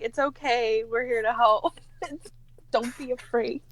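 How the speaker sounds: reassuring. Acted. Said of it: "be like".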